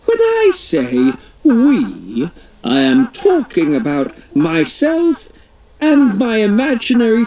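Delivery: a hint of a pompous royal; the Queen. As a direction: play a fussy, chirpy Queen. The Queen explains her words.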